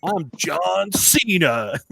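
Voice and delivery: lightly imitated boy, drawn-out announcement; little boy's proud correction. Boy correcting whoever asked if he's Jeff, mock announcement. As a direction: stretch out the name as the retold boy. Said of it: "And he goes".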